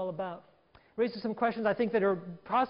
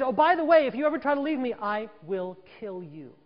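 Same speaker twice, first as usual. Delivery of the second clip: menacing threat; 3 dB louder than usual. Retold or imitated. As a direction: threaten her coldly, slowing to the end. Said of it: "if he says".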